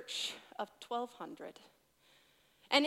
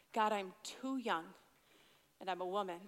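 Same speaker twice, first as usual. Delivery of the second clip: mild tearful plea; 6 semitones lower, 6 dB quieter than usual. Retold or imitated. Repeating her quiet camp prayer to God, softly pleading. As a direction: plead it quietly, as if holding back tears. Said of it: "Audibly, out loud".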